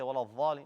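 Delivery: quick dhalin with a buzzing th sound; wrong dha. Shown as a demonstration. Teacher mimics what many people say, dhalin with a dha. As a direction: swap the heavy d for dh in dhalin. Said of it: "It's not a dha".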